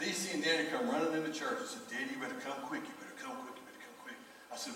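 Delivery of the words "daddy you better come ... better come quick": high, urgent, fading to a hushed whisper; urgent child's plea. Retold or imitated. Children warning their dad, high and urgent, fading away. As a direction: kids begging Daddy to hurry, pitch up and pleading. Kids run in to warn him.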